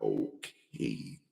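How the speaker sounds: hushed, low, drawn-out okay; stunned reaction, retold. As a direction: act out being quietly taken aback. Acting out own stunned reaction.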